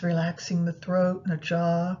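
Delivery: normal talking voice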